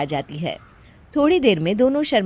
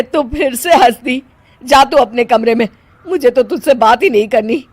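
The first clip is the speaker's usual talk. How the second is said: angry dismissal; 3 semitones higher, 4 dB louder than usual. Acted. Mother-in-law sends her away.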